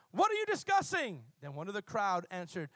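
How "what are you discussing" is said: Jesus asks. Acted. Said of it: "he asked them".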